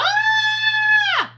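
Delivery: high, loud joyful scream; excited shriek. Retold or imitated. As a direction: shriek with delight at the first check. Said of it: "You're so excited".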